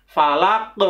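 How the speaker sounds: "Falaq" with a bouncing final q; over enunciating. Shown as a demonstration. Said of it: "qaf itu termasuk salah satu huruf qalqalah".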